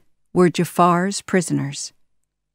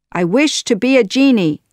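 quick, higher, louder exclamation; eager wish; 6 semitones higher, 6 dB louder, faster than usual. A narrator's reading. Jafar wishes to become a genie, eager and loud. Villain cries out a new wish.

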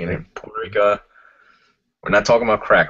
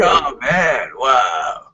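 stoner voice; 4 semitones higher, 3 dB louder, much slower than usual. Shown as a demonstration. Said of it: "stoner voice".

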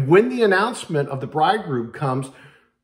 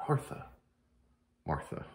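gentle call; 11 semitones lower, 13 dB quieter than usual. Acted. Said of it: "Jesus was speaking to Martha".

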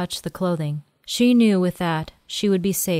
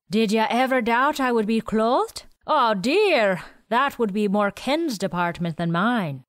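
put-on quirky old man; 5 semitones higher than usual. Willie speaking.

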